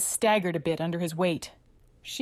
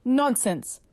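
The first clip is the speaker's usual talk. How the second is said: snapped; 7 semitones higher, 3 dB louder than usual. Acted. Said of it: "snapped Alba".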